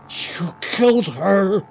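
loud, high, slow anguished scream. A narrator's reading. Raymond discovering Elizabeth dead, anguished scream. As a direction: scream the accusation. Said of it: "Raymond screamed".

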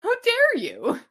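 high, loud, hammed-up outrage; a cranky old lady scolding them; how dare you, squeaked in mock fury; mock indignation.

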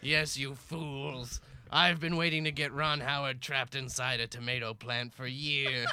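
gloating villain reveal, slow on the key words; a hint of a cackling supervillain; evil villain monologue. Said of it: "trying to monologue about my evil plans".

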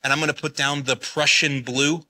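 a light take on the TV painter; just a hint of the PBS painter, lightly voiced; Bob Ross voice. Quoting the painter on his PBS show, lightly voiced. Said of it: "he used to go".

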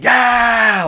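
high, loud cheer; retold scream. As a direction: yell it out like a goal just went in.

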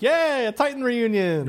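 high, slow gushing fan cheer; mock fan squeal. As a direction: squeal it like a thrilled fan kid. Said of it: "I was like".

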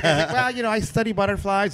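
high, airy mock answer; dreamy hipster. Hipster answering rich guy, high airy mock. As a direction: play the gentle butterfly man. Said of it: "he's like".

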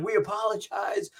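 high, slow mock-solemn announcement; imitated apologetic parent. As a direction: mimic a parent apologizing into the mic.

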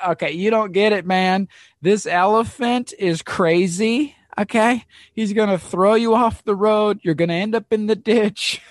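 high, loud, pleading warning yell; urgent shouted warning. Retold or imitated. Guide yelling at the traveller to get off the road, urgent shout. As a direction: shout it to stop a stubborn traveller. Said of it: "the guy tells him again".

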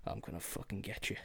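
low, soft whispered threat; quiet menacing whisper; sinister whisper. Retold or imitated. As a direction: whisper a vindictive promise. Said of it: "to be like".

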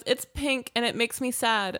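a hint of little-girl voice; young daughter. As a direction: imitate a small child's complaint. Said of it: "our daughter at night now".

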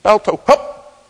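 slow, high, loud command; firm musher call. Retold or imitated. Gunnar calls Balto to pull, slow loud shout. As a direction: draw the call out to the dog. Musher calling dog again.

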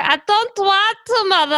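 mock film heroine. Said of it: "that is, that and her going".

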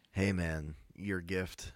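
hushed, guilty little apology; sheepish apology. Retold or imitated. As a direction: act out a meek sorry, dropping away. Friend apologizing for a delayed gift.

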